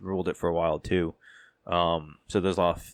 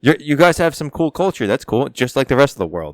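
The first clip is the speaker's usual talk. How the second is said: exasperated rant; 3 semitones higher, 7 dB louder than usual. Real, not acted. Ranting at pompous French culture.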